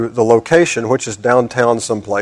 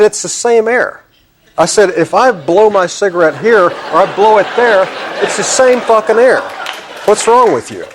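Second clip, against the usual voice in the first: exasperated rant; 7 semitones higher than usual. Retold or imitated. Arguing with waitress, heated.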